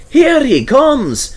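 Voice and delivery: slow, drawn-out excited call; yelled. Acted. Douglas calling out at the approaching engine, excited. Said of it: "yelled Douglas".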